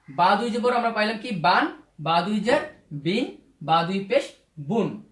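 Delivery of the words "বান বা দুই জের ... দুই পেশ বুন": slow drill, pausing before "বিন" and "বুন"; tanween pronunciation. Shown as a demonstration. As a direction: slowly recite "বান", "বিন", "বুন", each ending on n. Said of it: "তানবিনের উচ্চারণ".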